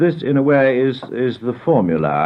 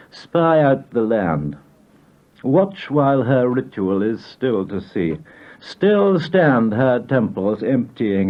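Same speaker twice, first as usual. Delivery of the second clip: poem recitation; slower than usual. Acted. Poet reciting a poem about his mother, measured incantatory reading. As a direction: declaim it line by line with deliberate pauses.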